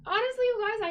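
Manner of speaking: high, loud rush of feeling; emotional. Real, not acted. Streamer overwhelmed by viewers' support, emotional. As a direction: blurt it out, overwhelmed. Emotional over first super chat.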